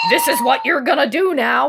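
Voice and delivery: loud, commanding mock order; bossy shout. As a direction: bark it like slapping down a contract. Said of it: "be like".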